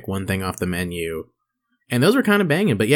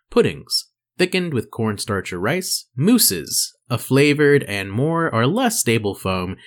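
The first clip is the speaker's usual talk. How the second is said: measured, slower read with lifted pitch; reading aloud; 3 semitones higher, slower than usual. Real, not acted. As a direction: read it out like an explainer, unhurried. Reads expert's written answer aloud.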